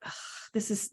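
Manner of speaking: scoffing, unconvinced groan; mock skeptical ugh; skeptical disbelief. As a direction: sound like you think it's nonsense. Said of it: "you could just tell in my voice".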